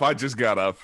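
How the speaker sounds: put-on Canadian accent.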